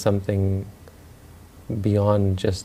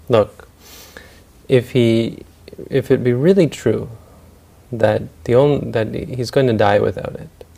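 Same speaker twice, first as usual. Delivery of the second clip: raised voice of a master laying down terms; lordly proclamation; 2 semitones higher, 4 dB louder than usual. Retold or imitated. Rich man offers work for rice, lordly proclamation. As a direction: declare the condition firmly, with pauses.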